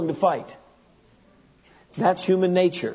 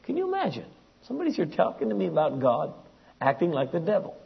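inner incredulity; 4 dB quieter, faster than usual. Retold or imitated. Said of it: "My mind is saying".

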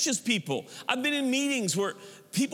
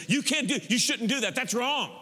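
mock scolding; 5 semitones higher than usual. Acted scolding by a judgmental Christian.

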